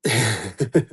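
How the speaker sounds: short low, soft laugh; low chuckle. Real, not acted. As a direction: chuckle quietly to yourself. Seller laughs between calls.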